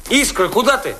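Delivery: calling after her. Acted. Calling after her as she leaves.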